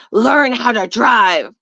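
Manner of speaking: slow, drawn-out mock scolding; lightly mocked hostile retort; imitated angry driver. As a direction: imitate a rude driver, stretching each word.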